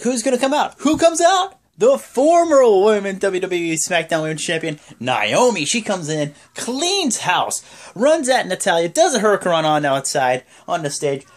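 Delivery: loud, high-pitched ring announcer excitement; hyped entrance call. Retold or imitated. Fan retelling Naomi's surprise run-in, hyped and loud. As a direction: build the big reveal, drawing out the champion's title.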